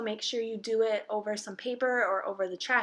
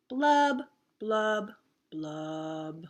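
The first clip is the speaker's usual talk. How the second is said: sinking blubs; much slower than usual. Acted. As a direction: let each blub sink like a bubble going down.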